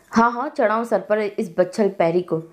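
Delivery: a spiteful old woman's voice, a hint of sneer; venomous grandmother. Grandmother sneering at mother about Kirat, spiteful old voice. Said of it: "जहरखुंद लहजे में कहा".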